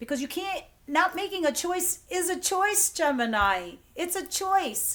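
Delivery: loud, high-pitched, bossy yelling. A reader addresses Gemini listeners like an older sister; yelling. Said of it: "I know I'm yelling at you".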